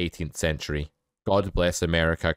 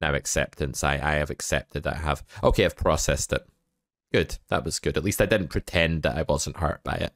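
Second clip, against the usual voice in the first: mock grieving; 3 semitones lower than usual. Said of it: "Shock, okay".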